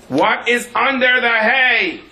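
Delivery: high, slow, laughing disbelief; laughing incredulous question. Retold or imitated. Speaker retelling the farmer's question, laughing high and slow.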